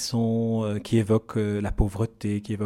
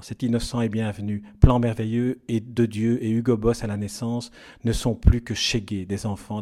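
measured literary reading, each word placed with care; reading an excerpt aloud; 2 semitones lower than usual. Acted. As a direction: read the passage like a book excerpt. Host reads excerpt from the novel.

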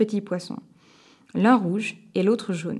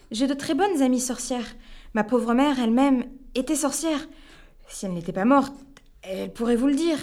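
pleading; 5 semitones higher than usual. Acted. A man on his knees begging the witch for mercy. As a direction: plead for your life on your knees. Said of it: "je me mets à supplier".

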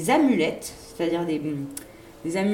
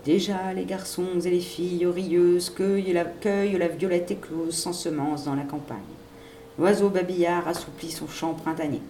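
declaiming verse; 2 semitones lower than usual. A narrator's reading. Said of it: "se mit à déclamer".

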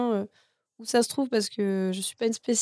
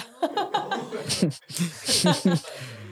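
growl; 3 semitones lower than usual. Shown as a demonstration. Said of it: "Je vais bien le faire, mais une seule fois".

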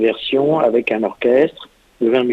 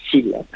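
"syllabes" accented on its first syllable; stress on syllabes. Shown as a demonstration. Composer giving an example of accents, stress on "syllabes". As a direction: lean on the start of "syllabes". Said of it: "des accents sur certaines syllabes".

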